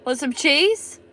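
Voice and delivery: amused teasing repeat; laughing repeat. Shown as a demonstration. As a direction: say it again while chuckling.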